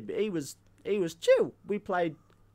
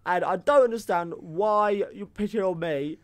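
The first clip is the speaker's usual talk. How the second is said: angry; 5 dB louder than usual. Acted. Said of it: "I'm getting really angry now".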